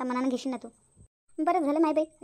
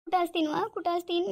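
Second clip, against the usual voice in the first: crying; 2 semitones higher than usual. Acted. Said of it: "Sumitra, रडू नको".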